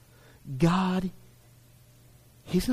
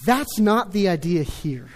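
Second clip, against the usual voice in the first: chuckling; 3 semitones lower than usual. Real, not acted. Laughing at his own story.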